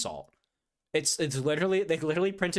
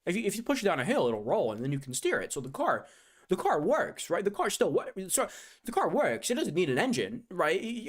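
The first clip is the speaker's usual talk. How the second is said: mock salesman; 5 semitones higher, faster than usual. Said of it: "They're like".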